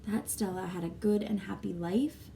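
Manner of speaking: steady, clear read-aloud voice for the class; story narration. Acted. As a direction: read the chapter to the children. Teacher reads next chapter.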